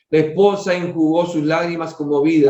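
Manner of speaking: measured, formal reading aloud; story narration. A narrator's reading. Reader telling a family's spiritual story to listeners, story narration. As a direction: read it out as a solemn tale.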